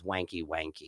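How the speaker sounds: soft, low murmured password; secret code word. Retold or imitated. Masseuse giving clients the secret code word, softly and low. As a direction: murmur the code word under your breath. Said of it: "her code word was".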